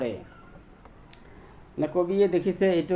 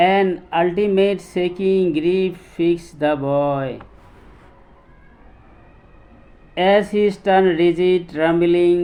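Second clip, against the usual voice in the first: slow, measured recitation of an English poem; much slower than usual. Shown as a demonstration. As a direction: recite it very slowly, drawing out each phrase. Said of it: "আবৃত্তি কৰি শুনাইছোঁ". (ধীৰ গতিৰে কবিতা আবৃত্তি)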